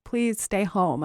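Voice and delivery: slow, soft begging; pleading. Retold or imitated. To her fiancé after the miscarriage, a slow soft plea. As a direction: mildly plead with him to stay, drawn out. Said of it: "begging him".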